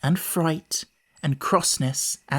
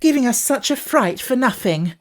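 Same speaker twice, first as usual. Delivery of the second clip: higher, louder cross complaint; 8 semitones higher, 4 dB louder than usual. A narrator's reading. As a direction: scold him for the false alarm. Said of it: "the others were quite cross".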